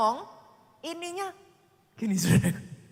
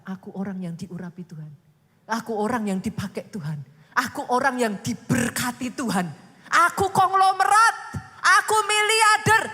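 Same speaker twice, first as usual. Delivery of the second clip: declaration building to a shout; 8 dB louder than usual. Shown as a demonstration. Preacher models a confession, calm to loud shout. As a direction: build each line until you shout it.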